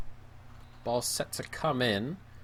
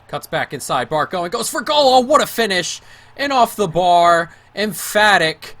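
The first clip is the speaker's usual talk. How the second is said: much higher and louder roar; ecstatic goal yell; 7 semitones higher, 11 dB louder than usual. Real, not acted. Gamer celebrating a screamer, ecstatic shout. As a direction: shout it with total joy. Winning goal scored in game.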